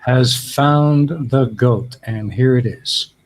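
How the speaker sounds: slow grand winner announcement; announcer voice. Acted. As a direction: present the winner like a host.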